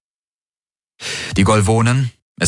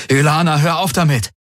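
high, raised exclamation; exclaimed plea; 8 semitones higher than usual. A narrator's reading. Galen to Ylana as she threatens, exclaimed plea. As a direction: cry out to make her stop. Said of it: "rief er aus".

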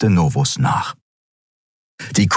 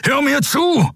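desperate shout to be heard; shouted command. Acted. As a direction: force him to listen. Kero shouts at Kai.

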